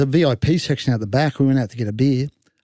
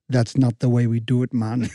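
curt refusal; 5 semitones lower than usual. Retold or imitated. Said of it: "And he went".

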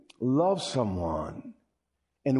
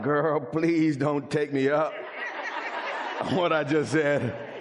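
laughing plea. Retold or imitated. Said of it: "you're like".

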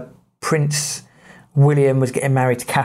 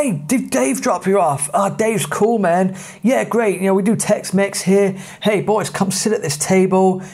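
Steve; 5 semitones higher than usual. Retold or imitated. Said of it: "Steve's come out".

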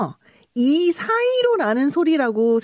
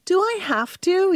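reluctant whine; 7 semitones higher, much slower than usual. Shown as a demonstration. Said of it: "이렇게 시작할 수 있어요".

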